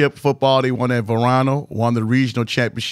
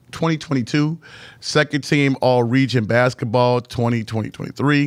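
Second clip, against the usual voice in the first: retainers in mouth. Real, not acted. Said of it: "I got these retainers in my mouth".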